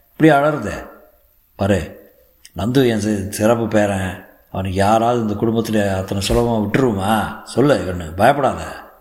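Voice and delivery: lightly voiced elder, fond scolding; reassuring elder uncle. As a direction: chide her affectionately and with conviction. (தைரியம் சொல்லும் பெரியப்பா)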